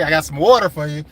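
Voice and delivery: lightly voiced coworker handing over water; imitating Gibbs. Quoting his boy Gibbs offering water, lightly mimicked. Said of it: "What my boy Gibbs say".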